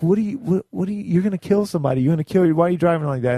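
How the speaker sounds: screaming at mom. Retold or imitated. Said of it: "start screaming at your mom".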